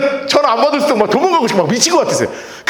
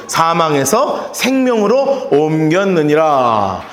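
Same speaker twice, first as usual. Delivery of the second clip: slow scripture reading; 8 semitones lower, much slower than usual. Shown as a demonstration. Scripture read aloud.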